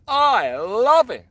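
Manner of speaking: delighted. Real, not acted. Angler thrilled by Janice's comment, gushing excitedly. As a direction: gush with real delight.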